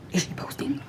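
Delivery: high-pitched mock-scandalized whisper; mock shock. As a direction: imitate a horrified nosy watcher. Mimicking people obsessed with her.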